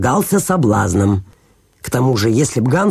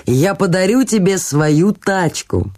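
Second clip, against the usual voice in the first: self-satisfied miller; 2 semitones higher than usual. Acted. Miller offers Hans a broken wheelbarrow, mildly self-satisfied. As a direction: make a grand show of generosity.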